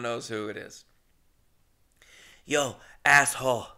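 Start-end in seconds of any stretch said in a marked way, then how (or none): 2.4-3.7 louder drawled Jesse Pinkman voice. Retold or imitated. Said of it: "That's my Jesse Pinkman".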